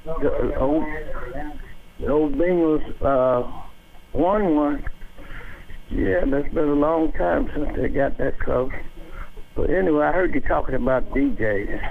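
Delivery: muffled. Real, not acted. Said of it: "You sound just a little muffled".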